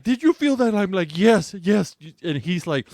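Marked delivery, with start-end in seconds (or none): 0.0-0.7 high, louder startled question; imitated urgent check on a patient; alarmed doctor. 1.2-2.0 pained yes. Retold or imitated. Acted patient in pain.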